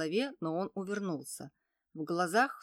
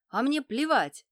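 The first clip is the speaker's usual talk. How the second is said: louder, higher defiant yell; shouted back; 7 semitones higher, 8 dB louder than usual. A narrator's reading. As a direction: hurl it back over his shoulder. Boy shouts back running. (мальчик дерзко кричит в ответ)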